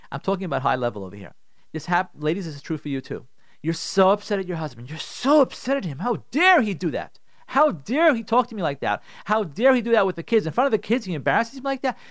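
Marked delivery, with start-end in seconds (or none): 6.0-12.0 indignant, louder, pushing each How dare; mock angry rant. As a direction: play the offended wife venting. Wife's angry inner rant at husband.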